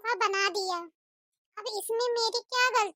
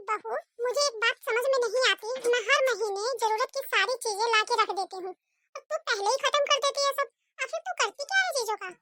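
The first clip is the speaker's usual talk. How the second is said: scolding mother-in-law. Acted. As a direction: nag the daughter-in-law to hurry. Mother-in-law questions the bride. (बहू को डांटती कंजूस सास)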